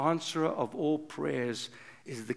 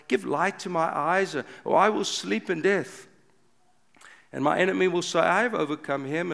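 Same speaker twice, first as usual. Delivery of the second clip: crying out in lament; 3 semitones higher, 5 dB louder than usual. Acted. Preacher voicing King David crying out for his nation, loud pleading lament. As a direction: cry it out to God like a desperate king.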